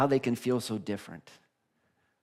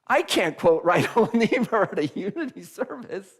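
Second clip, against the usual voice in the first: loud, higher, laughing mock panic; laughing alarm; 9 semitones higher, 8 dB louder than usual. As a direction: blurt it out in amused dismay. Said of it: "then I went like".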